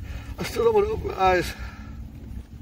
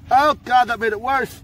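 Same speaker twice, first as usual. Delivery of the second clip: pained cry; 5 semitones higher, 4 dB louder than usual. Real, not acted. Burning gets worse from cloth.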